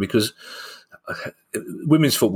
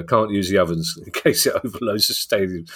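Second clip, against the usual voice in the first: laughing. Real, not acted. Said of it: "I'm gonna struggle to say it without laughing".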